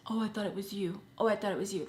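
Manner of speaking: mock the tired male excuse; parroting a lame excuse with scorn. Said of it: "that whole thing that men use".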